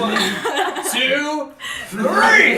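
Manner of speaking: building count. Acted. Player counting before hurling a companion, excitement building. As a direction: wind up for the big throw.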